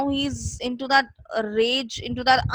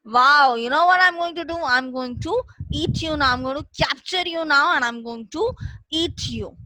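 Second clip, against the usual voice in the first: gleeful tiger; 3 semitones higher, faster than usual. Retold or imitated. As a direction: gloat over the trapped man. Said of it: "So this tiger said".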